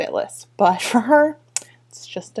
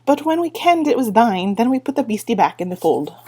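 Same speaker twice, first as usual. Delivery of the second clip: Feegle voice; 3 semitones higher, 5 dB louder than usual. Acted. Feegle confessing to Tiffany.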